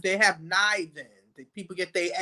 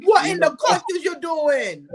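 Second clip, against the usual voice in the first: louder, higher joking call-out; teasing shout; 7 semitones higher, 3 dB louder than usual. Real, not acted. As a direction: yell it across the table at a friend. Teasing shout across the table.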